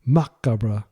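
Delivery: Macabre repeated as mah-KAH-bruh, the French way; French pronunciation. Shown as a demonstration. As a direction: Macabre in French, unsure and trailing. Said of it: "which is how you pronounce it in French".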